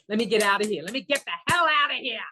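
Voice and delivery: desperate to get out, pushing harder on the repeat; acted-out exasperation, rising in pitch and volume; exasperated urge to flee. Acts out fleeing the shop.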